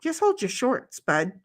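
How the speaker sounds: high-pitched exasperation without shouting; a last exasperated warning; short-fused. Real, not acted. Telling Bud to hold on, short-fused. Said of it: "I'm short fusing over here".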